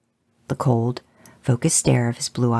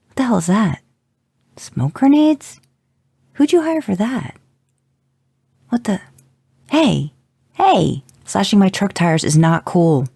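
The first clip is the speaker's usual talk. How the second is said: friend on a voicemail, growing alarmed; rising panic as the field fills with smoke; panicked voicemail; 5 semitones higher, 5 dB louder than usual. A narrator's reading. Friend calling Jensen, then panic as demons attack. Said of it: "Jensen played the voicemail again, this time on speaker".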